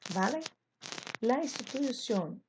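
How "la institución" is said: "institución" stressed on the final CIÓN; stress on last syllable. Shown as a demonstration. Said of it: "instituição aguda". ("institución" com a última sílaba tônica)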